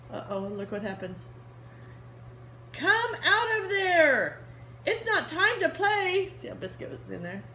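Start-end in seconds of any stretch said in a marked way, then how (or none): 2.7-6.3 higher, louder mock scolding, slow; gentle scolding girl. Reading to kids, the girl tells Biscuit to come out. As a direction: scold the puppy playfully.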